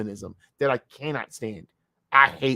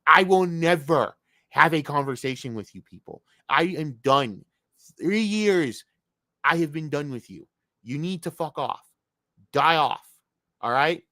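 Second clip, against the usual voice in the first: loud, higher shouted rant; angry shouting; 4 semitones higher, 3 dB louder than usual. Real, not acted. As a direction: shout them down, you are done. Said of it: "I had to yell that out".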